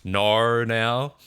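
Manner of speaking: NAR drawn out as people spell the Aussie no; overdone Aussie O on "Nar"; mock Aussie O. Shown as a demonstration. Streamer showing viewers the memed spelling of no, exaggerated Aussie O. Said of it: "the way that they, like, s-, uh, spell it".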